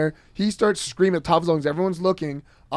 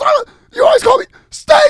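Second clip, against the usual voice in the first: mock squeaky-voiced scream, higher and louder; 10 dB louder than usual. Retelling a classmate standing up to shout back: imitating a squeaky-voiced scream. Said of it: "screamed at the top of his lungs".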